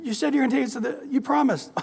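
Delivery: put-on a child pestering dad at the game; nagging kids. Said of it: "your kids are going".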